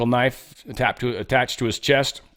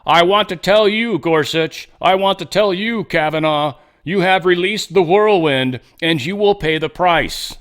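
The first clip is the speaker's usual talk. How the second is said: raised, half-hearted mock shout; quoting a rally shout, higher and louder but not full force; retold shout; 5 semitones higher, 3 dB louder than usual. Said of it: "and shouted".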